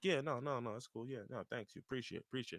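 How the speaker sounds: very soft, quiet, nonchalant, offhand tone. Retelling how a man shrugs off everyone's sudden attention, acting out someone playing it cool. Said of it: "and then he's just playing it cool".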